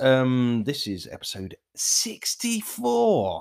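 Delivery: slightly squeaky voice. Podcast host introducing the episode number, in a slightly squeaky voice. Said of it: "with a slightly squeaky voice".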